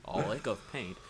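lilting Welsh lick of paint; Welsh accent. Retold or imitated. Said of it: "the most Welsh accent you possibly could".

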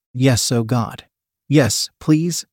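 mild pleading; begging. Acted. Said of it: "Emily begged".

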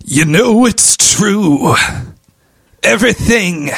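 slow crooning impression; impression of a singer. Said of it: "the cover of that singer".

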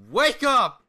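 loud, high heckler's shout; imitated fan yell. Random fan ruining the sleeping wrestler's moment, imitated yell. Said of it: "He just yells".

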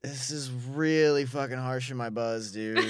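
lightly played drunk bro; a hint of a bummed-out drunk; acting hammered. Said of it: "he's, like, really acting hammered".

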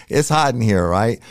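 high, loud re-enacted call for help; urgent signal call. Officer signalling his detectives from the stall, urgent high call.

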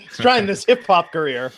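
lightly mocking old man. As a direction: echo it like a tired old man. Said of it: "he just sounded like an old man".

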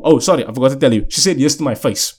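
ordinary talk, nothing marked

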